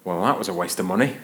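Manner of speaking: low, quick grumble to oneself; understated sour reaction; deadpan disappointment. Retold or imitated. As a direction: drop it as a dry punchline. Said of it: "my honest first reaction was".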